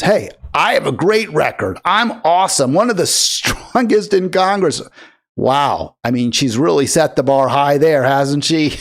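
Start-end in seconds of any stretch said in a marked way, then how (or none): 0.0-4.8 a touch of self-satisfied bragging, lightly voiced; quoting her boast with a light smug lilt; smug boasting mimic. The host quotes the congresswoman's boast to his viewers, lightly mocking. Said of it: "Her attitude instead is".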